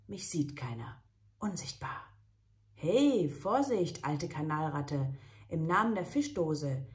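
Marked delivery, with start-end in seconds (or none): 2.7-6.8 high, loud plucky kitten; kitten superhero. Acted. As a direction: play a brave tiny superhero cat.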